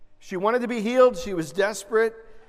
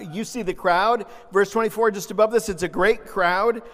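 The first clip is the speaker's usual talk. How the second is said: ordinary talk, nothing marked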